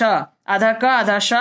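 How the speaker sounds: आधा क आधा श said slowly, part by part; slow teaching demo. Shown as a demonstration. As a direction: slowly break the letter into halves. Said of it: "क और श". (धीरे-धीरे समझाते हुए)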